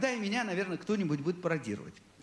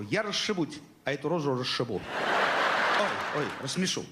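prankster character; 4 semitones lower, slower than usual. Acted. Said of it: "У меня есть такой персонаж".

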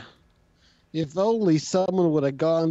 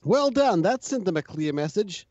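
Jane voice; 2 semitones higher than usual. Acted. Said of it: "you're voicing Jane".

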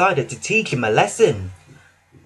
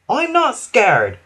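calm reply; 8 semitones higher, 3 dB louder, slower than usual. Acted. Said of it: "Toby replied calmly".

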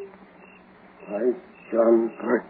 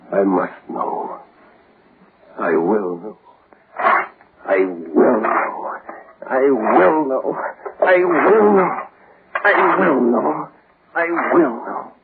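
rising obsession. Acted. Obsessive repeating, building to crying.

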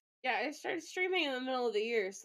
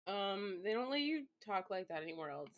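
usual speaking voice

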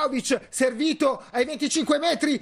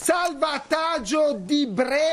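excited commentary; slower than usual. Real, not acted. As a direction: stretch out the save excitedly. Live commentary, goalmouth save.

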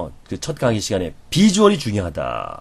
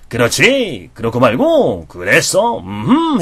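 drummer's encouragement; much slower than usual. Shown as a demonstration. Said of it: "해줘야".

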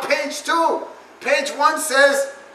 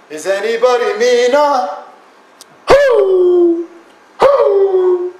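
loud, high yell into the crowd; shouting; 6 semitones higher, 7 dB louder, much slower than usual. Acted. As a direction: bellow it like an angry preacher. Ranting god character yells at audience.

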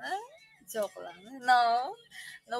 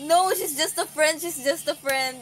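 louder, higher hurried denial; mock denial; 4 semitones higher, 8 dB louder than usual. Friend insisting she's just a friend, mock denial. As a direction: insist it's nothing, a bit too fast. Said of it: "And then she said".

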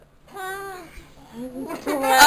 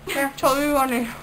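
mouth full. Real, not acted. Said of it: "three in my mouth".

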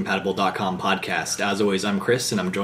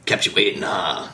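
Snake impression. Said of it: "thanks for joining us, Snake".

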